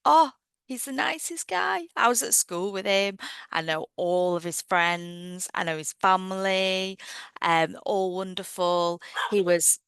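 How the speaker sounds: put-on excited gushing girl; gushing friend. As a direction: gasp then gush with praise. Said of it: "the other girl goes".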